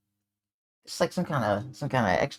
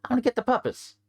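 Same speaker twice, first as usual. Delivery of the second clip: stern gruff character; 9 semitones higher than usual. Acted. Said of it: "It's like".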